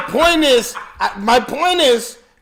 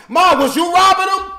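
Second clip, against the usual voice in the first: calling out; 9 semitones higher, 4 dB louder than usual. Real, not acted. Calling out to his mother.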